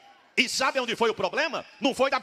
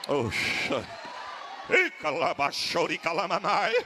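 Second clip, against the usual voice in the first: sudden lower burst of tongues; speaking in tongues; 6 semitones lower, slower than usual. Real, not acted. Pastor at the pulpit speaking in tongues, low ecstatic burst.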